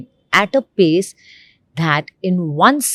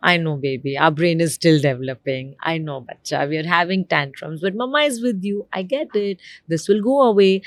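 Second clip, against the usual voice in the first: calm soothing mother; faster than usual. Acted. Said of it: "So what do I do?".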